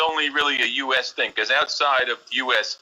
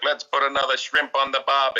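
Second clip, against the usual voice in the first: put-on Australian accent. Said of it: "I was taking Australian lessons".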